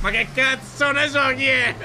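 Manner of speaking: laughing. Real, not acted. Laughing at absurd question.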